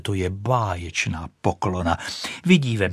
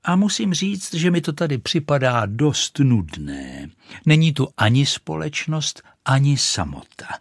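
lightly voiced proud rocket, a touch higher; haughty rocket; 4 semitones higher than usual. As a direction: boast like a vain firework, lightly done. Rocket speaks to the duck. (mírně vyšší, povýšený hlas rakety)

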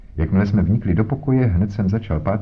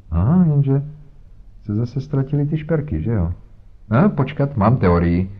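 self-satisfied; 5 semitones higher than usual. Acted. Inspector pleased with his theory.

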